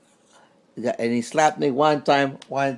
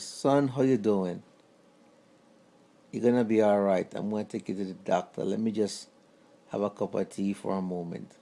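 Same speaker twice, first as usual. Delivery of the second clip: smooth and calm; 3 semitones lower, 4 dB quieter than usual. Retold or imitated. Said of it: "that's how smooth this guy was".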